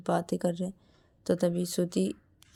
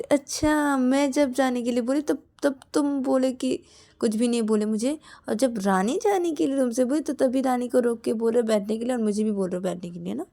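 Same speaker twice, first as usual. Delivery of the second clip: higher, louder complaint; accusing; 5 semitones higher, 4 dB louder than usual. Acted. Shreya accuses Vikas of stopping Rani but not her, indignant. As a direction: call him out sharply.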